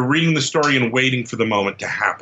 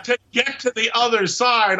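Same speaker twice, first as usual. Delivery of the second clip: very high clicking alien voice; 10 semitones higher than usual. Pretend. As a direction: squeak it out like a little alien. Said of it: "I laugh with my alien voice".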